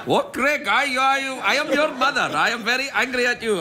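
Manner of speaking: bad Scottish accent. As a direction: play Cloris botching a Scottish brogue, high and fussy. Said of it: "It sounded Pakistani to me".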